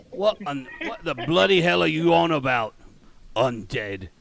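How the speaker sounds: loud, high Cockney disbelief; incredulous mock-Cockney outburst; shitty Cockney accent. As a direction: exclaim like an alarmed Cockney guard. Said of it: "my shitty Cockney accent".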